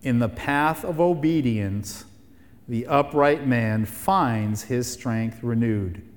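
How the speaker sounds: measured, letting each phrase land; deliberate emphatic repeat. Shown as a demonstration. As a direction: say it so they really catch it. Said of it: "Really catch it".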